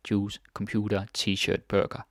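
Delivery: English loanwords in a Danish accent. Shown as a demonstration. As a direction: say it as a Dane would, Danish accent. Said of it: "say them with a Danish accent".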